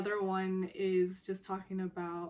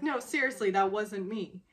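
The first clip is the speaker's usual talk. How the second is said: louder mock-earnest denial; insistent denial; 6 dB louder than usual. Teased woman telling him it was not her, insistent denial. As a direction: push back firmly, louder. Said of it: "He's just sort of teasing her".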